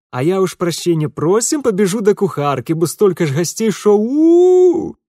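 high, loud rustic chatter; hurried maid rushing off; servant girl voice. A narrator's reading. Adarka excusing herself. (голос деревенской служанки)

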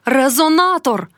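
high, slowed cry of terror; cry in a strange voice. Acted. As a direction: scream it not in her own voice. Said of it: "Вона кричала не своїм голосом".

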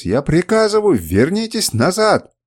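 high, loud, slow order; commanding shout. A narrator's reading. Kernus ordering deserters back, high desperate shout. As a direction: scream the command, losing control. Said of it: "призывал их Кернус".

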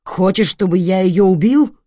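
loud threat of a raging father; menacing shout. Acted. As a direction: threaten her with a roar.

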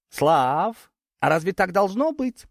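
озвученная рассказчиком встревоженная женщина, голос выше; спроси с тревогой, подняв голос к концу; взволнованный вопрос. A narrator's reading. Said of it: "взволнованно спросила Юлианна". (взволнованно, с тревогой)

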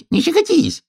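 very high, sharp cry; hedgehog squealing. A narrator's reading. Hedgehog cries out at the tickling hare, very high. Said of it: "крикнул ёжик".

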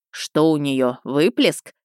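brisk doctor asking a quick diagnosis; businesslike. Acted. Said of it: "деловито спросил неизвестный голос". (деловито)

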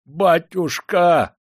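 high, loud, drawn-out howl; desperate slow wail; wailing plea. A narrator's reading. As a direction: howl for mercy, stretching the word. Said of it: "взвыл приказчик".

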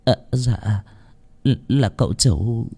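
hesitant, caught off guard; startled servant. Acted. (giọng người hầu rụt rè, lắp bắp)

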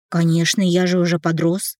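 ordinary delivery, nothing marked

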